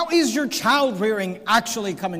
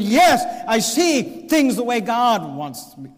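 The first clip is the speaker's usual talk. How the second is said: emphatic declaration; slower than usual. Acted. Preacher voicing a believer's claim.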